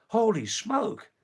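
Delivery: high, loud, drawn-out hail of the name; excited call. Real, not acted. Calling out to viewer Holy Smoke, high and excited. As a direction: sing out the name with delight.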